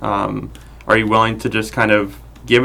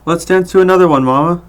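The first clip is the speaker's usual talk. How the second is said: put-on higher, brighter little boy; child voice; 8 semitones higher, 5 dB louder than usual. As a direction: play a six-year-old begging mama. Adult voicing six-year-old.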